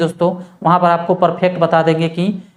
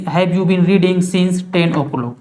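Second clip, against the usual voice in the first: slow dictation; much slower than usual. Shown as a demonstration. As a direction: have you been reading since ten o'clock drawn out word by word. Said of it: "वहाँ पर since का use किया जाता है". (धीमी गति से लिखवाना)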